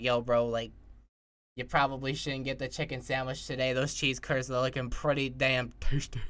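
lightly voiced chill inner dialogue; low, easygoing talk to oneself; a hint of a laid-back bro voice; calm inner voice. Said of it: "imagine your internal dialogue if you don't have A D H D".

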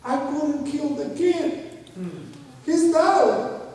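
very high, slow mock wail; imitating crying like a baby. Man weeps after watching his own film, mock crying. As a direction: whine it high like a bawling baby, hammed-up. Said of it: "he's crying like a baby again".

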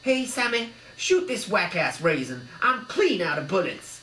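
loud, high casual thug order; gangster thug. A narrator's reading. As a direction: call to the gang.

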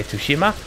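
Tsushima as "too-shima"; Jin's pronunciation. Shown as a demonstration. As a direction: keep the hard T opening Tsushima. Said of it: "so I'm gonna say Tsushima".

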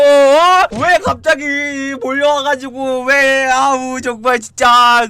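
high, loud flustered yelling; flustered shout. Pretend. Mock-shouting at arriving viewers.

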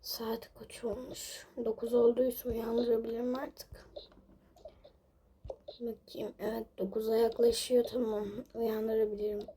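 soft whispered check. Real, not acted. Mother checking the time near sleepers, whisper. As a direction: whisper it so nobody wakes.

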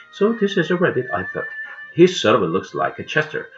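expressive read-aloud with voiced dialogue; story narration. A narrator's reading. Reading a pet rabbit story aloud, animated narration.

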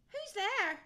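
loud, high call into the woods; high questioning holler. A narrator's reading. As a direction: call out to whoever is hidden. Owl calls to unseen replier.

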